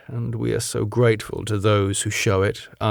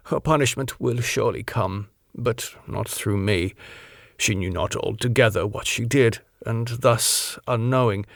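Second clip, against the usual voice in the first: Van Helsing. Acted. Van Helsing explains the theft.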